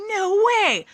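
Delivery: a fan's high-pitched no way when her idol shows up; stunned no way. Retold or imitated. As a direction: gasp it out in giddy shock. Retold stunned reaction to celebrity.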